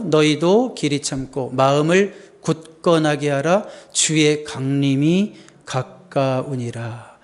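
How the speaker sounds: slow, deliberate verse reading, slowing further to the end; scripture reading. Real, not acted. Preacher reading verse eight to the congregation, slow scripture recital. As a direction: read it out slowly and solemnly.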